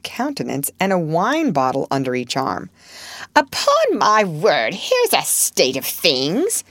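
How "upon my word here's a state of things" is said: put-on old lady crying out. A narrator's reading. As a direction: exclaim like a shocked old aunt. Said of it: "cried the old lady".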